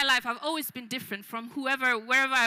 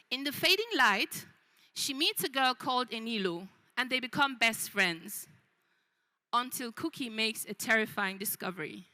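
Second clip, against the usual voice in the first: measured storytelling with long pauses; story narration. Acted. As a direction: tell it like a book blurb, unhurried. Tells her book's synopsis.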